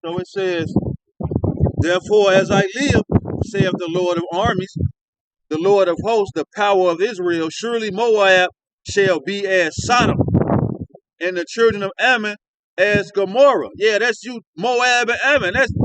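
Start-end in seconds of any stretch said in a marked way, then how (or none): 1.8-13.7 solemn, measured Bible reading; a lightly raised reading voice; scripture reading. Acted. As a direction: read it out like holy writ. Reads Zephaniah verse aloud.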